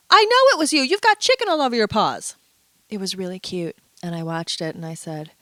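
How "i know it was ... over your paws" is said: playful scolding. Retold or imitated. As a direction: tease the guilty dog. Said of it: "the woman was going".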